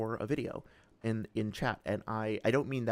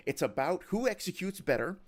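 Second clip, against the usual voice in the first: sportscaster line, higher; sports announcer voice; 5 semitones higher than usual. Pretend. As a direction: announce it like live commentary. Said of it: "announcer voice".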